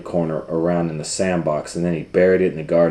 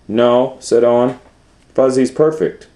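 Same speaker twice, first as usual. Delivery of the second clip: put-on higher, louder little boy voice; a hint of a stubborn child; insistent child; 7 semitones higher, 10 dB louder than usual. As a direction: kid defending his blanket. Owen insists on his blanket.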